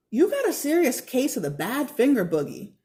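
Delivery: lightly voiced teasing girl; teasing Ella. A hint of Ella teasing her friend, playful. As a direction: tease him, a little brighter.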